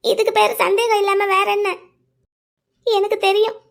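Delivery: sobbing out a hurt accusation; words breaking with tears; a wounded lover's crying protest. Acted. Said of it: "நீங்க கொஞ்சம் அழாதீங்க".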